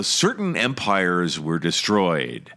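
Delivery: usual speaking voice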